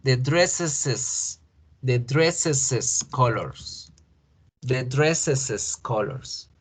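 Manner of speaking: dresses stretched to \"dreseses\", slow; slow model English. Shown as a demonstration. Teacher modeling the plural possessive slowly. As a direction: drag out \"dresses\" with an extra syllable. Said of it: "los colores del vestidos".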